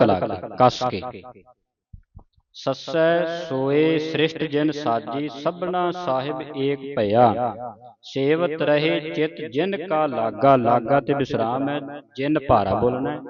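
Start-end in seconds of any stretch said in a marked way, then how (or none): 2.5-10.6 slow, drawn-out measured chant; slow scripture recitation. Shown as a demonstration. Teacher reciting scripture slowly for a student. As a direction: recite slowly, pausing at each stop.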